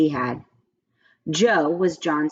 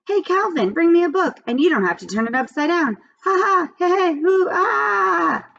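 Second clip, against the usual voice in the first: put-on high, loud, giddy kid shouting; thrilled John; 11 semitones higher, 3 dB louder than usual. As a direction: crow with delight, ending in a whoop. John thrilled standing on head.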